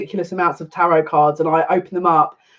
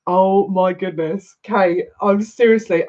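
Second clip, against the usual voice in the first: high, breathless excitement; barely contain the excitement; excited; 3 semitones higher than usual. Real, not acted. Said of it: "getting all super excited".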